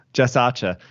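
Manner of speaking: a light, put-on Australian accent on the name. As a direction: say the name the Aussie way, only half committed. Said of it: "funnest name to say in an Australian accent".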